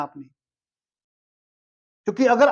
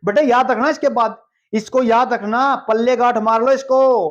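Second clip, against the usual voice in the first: elders' advice; 4 dB louder than usual. Retold or imitated. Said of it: "बोलते ना हमारे बुजुर्ग".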